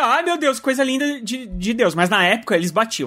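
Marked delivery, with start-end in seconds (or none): 0.0-1.9 high swooning gush; mock gushing fan. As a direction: coo like a starstruck fan. Mocking fans gushing today.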